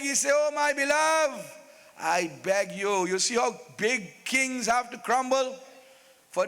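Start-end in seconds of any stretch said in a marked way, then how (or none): 0.3-3.1 begging. Acted. King on his knees to his beloved, begging. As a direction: plead with the beloved, stretching the words. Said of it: "he start to beg".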